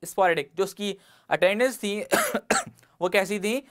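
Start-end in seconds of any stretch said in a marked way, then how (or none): 0.0-0.4 very slow, word by word; measured classroom dictation. Shown as a demonstration. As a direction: spell out the example sentence slowly.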